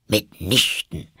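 slow, firm denial; decided, annoyed. A narrator's reading. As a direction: refuse with irritation. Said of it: "entschieden und sehr ärgerlich".

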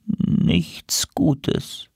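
whispered, foreboding prophecy; ominous seer. Acted. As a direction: whisper it as from a trance. Seer crow in a trance.

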